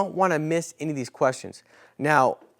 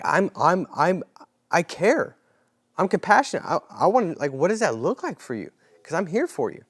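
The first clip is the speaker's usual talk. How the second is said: sincere, caring; 2 semitones higher than usual. Shown as a demonstration. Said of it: "ask it with sincerity".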